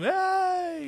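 long, high drawn-out holler; re-enacted high-pitched "hey" holler; hollered call. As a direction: call out to a buddy down the street. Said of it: "I hollered at him".

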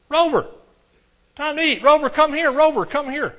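loud, high call across the yard; calling the dog. Shown as a demonstration. Preacher shows the congregation how to call their dog, loud high call. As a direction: shout for the dog at feeding time. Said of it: "If it's Rover, what would you say?".

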